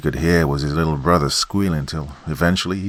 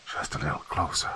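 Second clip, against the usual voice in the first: whispered, much softer hissing lure; choked snake voice; 9 dB quieter than usual. Acted. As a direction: coax like a strangled snake from the dark. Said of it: "sounded like a snake that was being choked".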